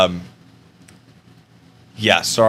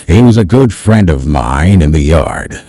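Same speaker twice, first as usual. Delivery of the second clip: put-on slow, louder old narrator voice; unhurried storyteller, much louder; Morgan Freeman; 3 semitones higher, 9 dB louder, slower than usual. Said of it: "it's not the perfect Morgan Freeman".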